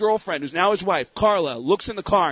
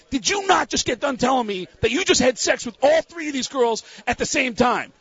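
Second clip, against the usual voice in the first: retold confrontation; 6 semitones higher than usual. Retold confrontation over the girls.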